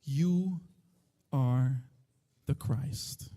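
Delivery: low, soft, nearly whispered; Peter's reverent, hushed declaration; hushed confession. Acted. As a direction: say it in awe, barely voiced. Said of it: "He says".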